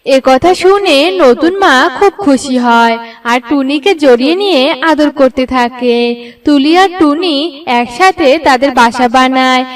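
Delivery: ordinary delivery, nothing marked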